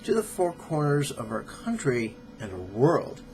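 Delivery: measured, emphatic reading from a book; formal read-aloud with deliberate pauses; book excerpt read-aloud. Acted. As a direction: read it out deliberately, stressing key words.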